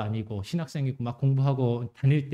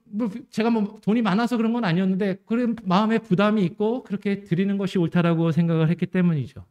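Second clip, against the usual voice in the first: ordinary delivery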